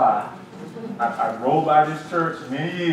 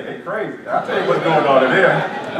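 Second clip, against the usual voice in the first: kids mocking; 5 dB louder than usual. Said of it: "the kids go out and say".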